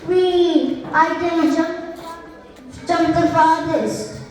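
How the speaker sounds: a touch of boastful glee, lightly voiced; mild proud monkey brag; proud baby monkey. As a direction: show off a little, like a cheeky monkey. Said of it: "said the baby monkey proudly".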